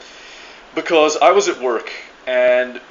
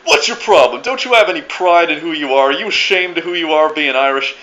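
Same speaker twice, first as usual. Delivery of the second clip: loud, higher-pitched imitated outburst; losing his temper; 4 semitones higher, 6 dB louder than usual. Old timer scolding an Irishman skipping the parade, imitated anger. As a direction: mimic an indignant man working himself up. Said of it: "started to lose his fucking temper".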